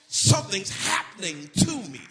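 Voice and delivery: loud, rising gospel preaching; preaching at full force. Acted. Preacher urging the church to praise God anyhow, full force. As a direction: build the congregation up to praise.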